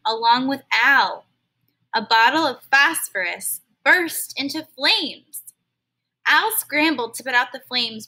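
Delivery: expressive read-aloud storytelling; storybook narrator reading to kids; story narration. Acted. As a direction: read it to a class like a picture book. Reads a story to children.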